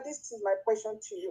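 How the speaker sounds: faint, far from the mic; weak signal on a call; barely audible. Real, not acted. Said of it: "Your voice is very faint".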